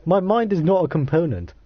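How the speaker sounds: mildly angry. Acted. Character objecting to the voice in their head, mildly angry. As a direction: push back with a touch of anger. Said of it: "you sound angry".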